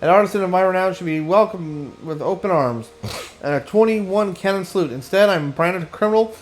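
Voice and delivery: hammy theatrical lament, lightly voiced; a hint of a pompous artist overplaying his woe; melodramatic aesthetician. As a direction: wail your injustice like a ham actor. Reads Dandelion's melodramatic lament.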